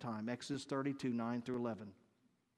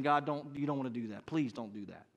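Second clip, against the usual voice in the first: talking down. Acted. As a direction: talk an angry God down calmly. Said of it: "he's talking God down".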